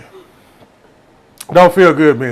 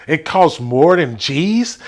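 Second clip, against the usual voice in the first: hesitant false start; much slower than usual. Retold or imitated. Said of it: "It, no, hold up".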